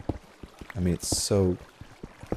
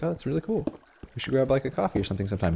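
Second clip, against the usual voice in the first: put-on higher, casual girl voice; lightly voiced girl, higher; imitated girl; 5 semitones higher, faster than usual. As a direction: mimic her easy friendliness, pitched up. Voicing the girl's friendly reply.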